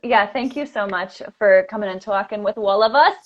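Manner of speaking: light New York accent on the thanks. Shown as a demonstration. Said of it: "I'm just doing my New York accent".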